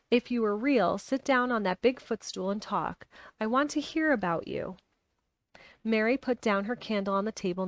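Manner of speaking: reading a novel aloud; steady storytelling read; story narration. A narrator's reading.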